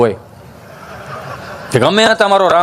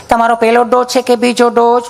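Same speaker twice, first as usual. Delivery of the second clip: lightly voiced sweet nurse, a touch higher; 4 semitones higher than usual. Nurse asking Gabho about his dose, sweetly voiced. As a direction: ask it the way a kind nurse would. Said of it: "nurse બેન ... દૂરથી એમ કીધું".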